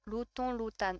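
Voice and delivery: careful Lotan, nasal ending then sounded n; trying both pronunciations. Shown as a demonstration. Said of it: "C'est ça, Lotan Lotan?".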